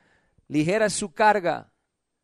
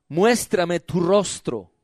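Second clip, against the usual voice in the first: solemn verse reading; 2 semitones lower, slower than usual. Real, not acted. Preacher reading verse fourteen to congregation, solemn verse reading. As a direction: read it out slowly, letting it settle.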